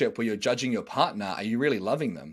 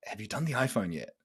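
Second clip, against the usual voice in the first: judgmental tone; 2 semitones lower, 6 dB quieter than usual. Shown as a demonstration. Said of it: "say it in a way".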